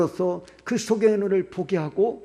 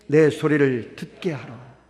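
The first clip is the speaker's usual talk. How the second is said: slow scripture reading; 3 semitones lower, 4 dB louder, slower than usual. Shown as a demonstration. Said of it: "시작".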